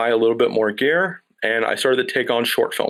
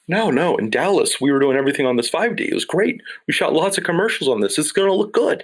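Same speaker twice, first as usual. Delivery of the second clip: eager raised pitch; 5 semitones higher than usual. Retold or imitated. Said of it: "And I'm like".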